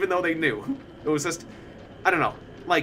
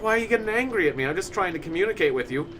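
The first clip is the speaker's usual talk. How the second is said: quick, higher-pitched retold protest; mock freaked out; 3 semitones higher than usual. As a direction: act lightly freaked out, starting fast. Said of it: "like, freaked out".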